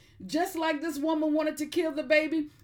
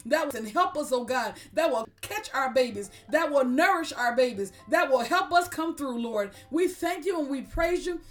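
rally speech. Acted. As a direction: pray it out with rising fire. Prayer builds to full force.

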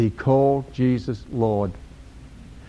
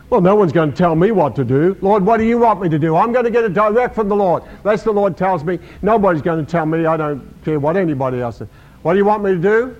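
fast, higher, self-important protest; mock their stubborn pride; mock defiant believer; 4 semitones higher, faster than usual. Preacher mocking stubborn believers, fast defiant voice. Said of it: "I've heard people over my many years say".

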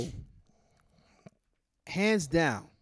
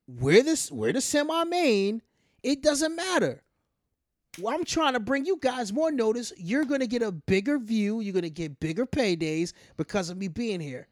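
Chris Jericho; 4 semitones higher than usual. Retold or imitated. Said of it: "Jericho's like".

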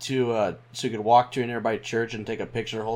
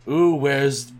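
panto villain; 2 semitones higher, 6 dB louder than usual. Pretend. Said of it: "Like a villain from a Panto show".

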